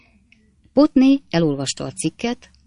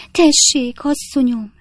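much higher, louder shrill reproach; a busybody maid laying into the master; scolding maid; 8 semitones higher, 4 dB louder, slower than usual. A narrator's reading. Maid berating the husband for hurting her mistress, high and loud.

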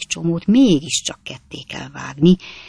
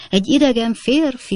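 high-pitched, contained scream; frightened shriek; 8 semitones higher, 3 dB louder than usual. A narrator's reading. Lady finds a stranger in her room, frightened shriek. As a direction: raise the pitch in alarm. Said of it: "sikoltozott a hölgy".

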